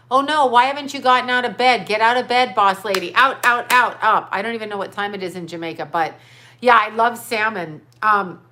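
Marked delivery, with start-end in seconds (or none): 0.1-4.3 playful scolding. Acted. Urging viewer out of bed.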